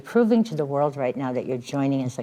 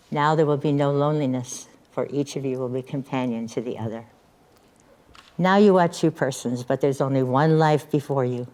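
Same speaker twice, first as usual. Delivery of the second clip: ceremonial reading. Acted. Officiant reads Native American blessing.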